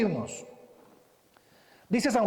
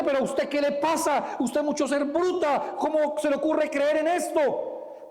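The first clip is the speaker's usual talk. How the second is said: padre regañón fingido, algo más alto; acusación fingida; 6 semitones higher than usual. Pretend. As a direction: reprende como padre que acusa. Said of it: "a decirle". (padre que acusa a su hija, regaño fingido)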